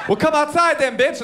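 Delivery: high, cocky taunting voice; imitating the other guy's challenge; mock taunt. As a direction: sneer it like a schoolyard bully. Retelling bully's taunt.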